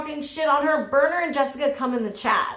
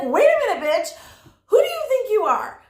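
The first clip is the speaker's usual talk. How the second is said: higher and louder mock sass, rising to a shrill peak; Wildflower's sassy comeback, playfully hammed up; 9 semitones higher, 4 dB louder than usual. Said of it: "She's like".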